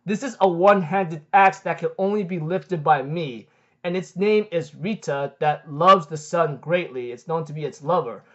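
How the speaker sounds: deep voice. Retold or imitated. Mystery owner of the axe answers, slightly deepened voice. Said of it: "we hear a deep voice".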